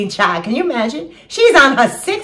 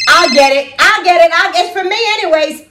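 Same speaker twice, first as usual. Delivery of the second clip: rushing to the phone; 7 semitones higher, 4 dB louder than usual. Acted. Hurrying to answer the phone.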